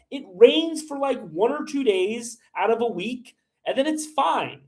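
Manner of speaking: real rage-baited indignation; getting heated. Real, not acted. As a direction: argue back heatedly, pitch climbing. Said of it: "I'm getting heated right now".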